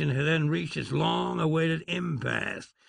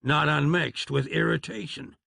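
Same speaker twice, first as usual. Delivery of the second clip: plain reading voice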